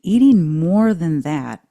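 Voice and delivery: slow, loud second attempt at reading; deliberate, drawn-out reading after cracking up; determined retake. Real, not acted. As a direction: push through it slowly and loudly to get it out. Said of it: "I can't even say it".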